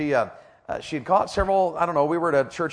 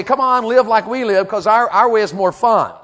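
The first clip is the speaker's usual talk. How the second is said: the world tempting; 8 semitones higher, 9 dB louder than usual. Acted. World's enticing invitation voiced.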